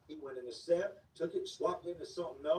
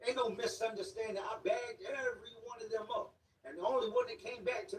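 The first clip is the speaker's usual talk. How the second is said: angry shout; 5 semitones higher than usual. Retold or imitated. Dealer confronts Charlie angrily, retold.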